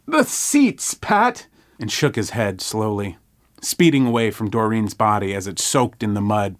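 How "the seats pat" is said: put-on high wincing old man. A narrator's reading. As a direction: complain like a fussy old man. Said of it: "Gerald winced".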